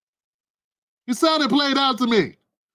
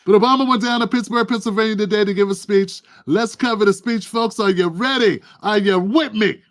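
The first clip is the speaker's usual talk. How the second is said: hype host. Real, not acted. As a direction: pump the crowd up fast. Hyping the audience up.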